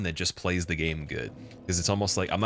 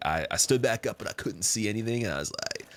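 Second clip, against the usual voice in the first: ordinary talk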